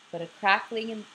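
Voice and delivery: words caught in a yawn. Real, not acted. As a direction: yawn breaking through. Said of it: "yawning again".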